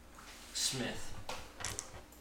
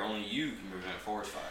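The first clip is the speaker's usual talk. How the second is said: Smokey the Bear voice; 3 semitones lower, 8 dB quieter than usual. Retold or imitated. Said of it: "His is Smokey the Bear".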